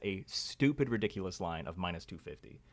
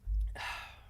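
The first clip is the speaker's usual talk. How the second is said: weary sigh. Real, not acted. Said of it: "I'm dying".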